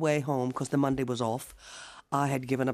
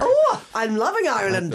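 louder, higher burst of delight; 7 semitones higher, 7 dB louder than usual. Real, not acted. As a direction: gush with real joy. Delighted reaction to listener praise.

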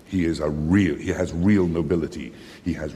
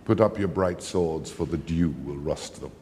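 very calm; 2 semitones lower than usual. Acted. Othello to a riotous mob, very calmly. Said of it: "says very calmly".

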